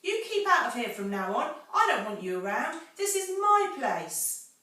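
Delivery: high, loud shrieking scold; shrieking Rat. A narrator's reading. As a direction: rat screeching at the intruders.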